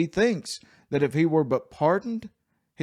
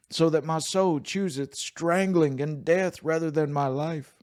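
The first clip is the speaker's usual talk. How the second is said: raised, pained reading of Job's lament; lamenting scripture reading; 3 semitones higher than usual. Acted. Pastor reading Job's complaint to God, raised. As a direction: read it as a weary man's complaint.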